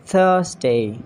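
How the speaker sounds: "Thursday" opening on TH; tongue-tip TH starts "Thursday"; TH sound. Shown as a demonstration. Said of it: "make T H sound like this".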